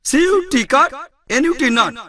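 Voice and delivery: high sing-song spelling drill; imitating rote spelling lessons; mock school recitation. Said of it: "তারপর শিখেছি beauty but".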